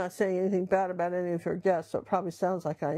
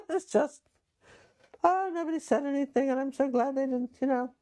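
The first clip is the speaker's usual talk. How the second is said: laughing; 7 semitones higher than usual. Real, not acted. Laughing relief, high far voice.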